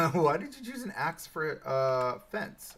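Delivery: laughing through the question; laughing repeat. Real, not acted. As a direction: chuckle while repeating it.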